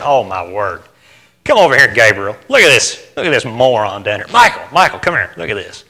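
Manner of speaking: lightly voiced God, low and amused; a hint of an exasperated God calling angels; mock weary God. Preacher voicing God calling Gabriel, lightly amused. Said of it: "God's sitting there thinking".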